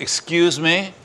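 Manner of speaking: mildly indignant retort, voice lifting; mock-indignant Jesus, only lightly acted. Jesus to his own disciples, mildly indignant. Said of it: "indignant, you know?".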